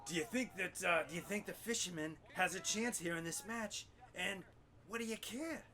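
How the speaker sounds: lightly voiced talk-show host; Larry King. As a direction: ask it like an old TV interviewer. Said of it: "by the name of Larry King".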